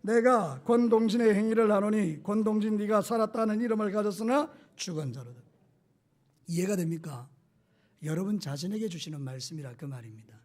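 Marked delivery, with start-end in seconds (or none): 0.0-5.4 congregation-style reading. Shown as a demonstration. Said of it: "자, 준비, 시작".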